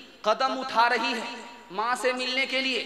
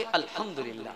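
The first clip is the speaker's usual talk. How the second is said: soft content reply; 9 semitones lower, 7 dB quieter than usual. Acted. Bride praises husband.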